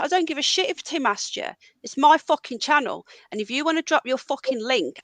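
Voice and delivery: furious streamer scolding a viewer; fuming. Real, not acted. Streamer scolds Ron for dropping his link, angry. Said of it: "I am fucking fuming".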